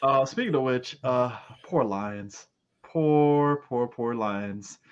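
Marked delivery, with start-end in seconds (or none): 1.6-4.8 slow, low mock sorrow; mock pity. Pitying the Detroit Lions after their loss, slow mock sorrow. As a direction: drag it out in fake mourning.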